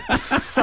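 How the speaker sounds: short sharp escaping hiss; sudden "psst" sound effect; imitated hiss. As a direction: make a quick sizzle noise. Imitates skin sizzling away.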